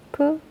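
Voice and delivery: 프 with a strong puff of air; aspirated p in 프; aspirated consonant. Shown as a demonstration. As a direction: release 프 as an aspirated sound. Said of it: "거센 소리".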